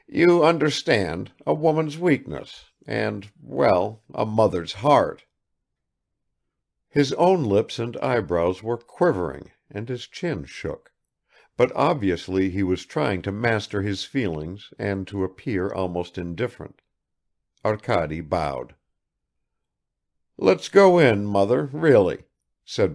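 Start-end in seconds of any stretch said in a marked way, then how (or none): 0.1-5.2 man to man excuse; father excusing his wife; apologetic. Acted. Father explaining to guest. 20.4-22.2 higher, louder start; gently impatient son. Acted. Son leads mother in.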